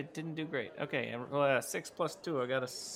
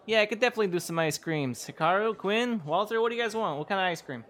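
eager server; 6 semitones higher, 3 dB louder than usual. Acted. Sammy serving friends eagerly.

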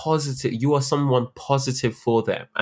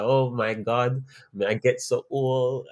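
slow, weak attempt at a Jamaican accent; half-hearted imitation of a Jamaican accent; slower than usual. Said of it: "my dead attempt at doing a Jamaican accent".

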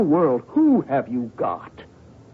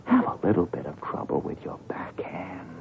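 hushed plea; 6 semitones lower, 8 dB quieter than usual. Acted. Husband begging his wife in a whisper to throw the match. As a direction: beg her softly, barely voiced.

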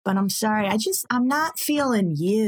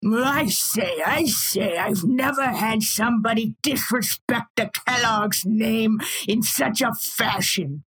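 indignant aristocrat. Acted. Indignant CEO voice.

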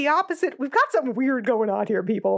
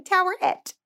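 cutesy; 7 semitones higher than usual. Shown as a demonstration. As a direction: say the name higher, sweet and cutesy. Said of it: "it sounds like a cutesy little girl thing".

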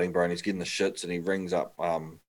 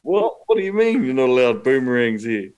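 incredulous; 5 semitones higher, 7 dB louder than usual. Retold or imitated. Incredulous retort to a boss.

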